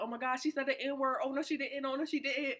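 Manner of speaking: retold shocked reaction; imitating shocked onlookers. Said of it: "they was, like, real shocked".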